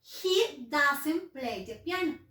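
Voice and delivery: very slow and clear, every word separate; slow example. Shown as a demonstration. Teacher to pupils, reading the example sentence very slowly. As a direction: dictate the example sentence to the class.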